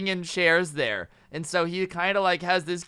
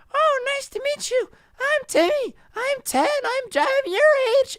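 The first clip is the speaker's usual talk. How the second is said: very high, squeaky pretend child; little kid doll voice; 5 dB louder than usual. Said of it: "she makes a voice and starts talking for".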